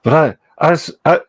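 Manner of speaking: lightly put-on pompous British professor, long-winded; pedantic old professor voice. Streamer to his chat, in a lightly pompous old professor voice. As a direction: hold a mild, pompous old-don accent for the stream. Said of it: "pedantic old professor voice".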